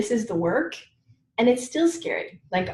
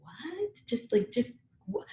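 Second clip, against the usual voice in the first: stunned; 7 semitones higher, 11 dB quieter, slower than usual. Retold or imitated. Stunned reaction.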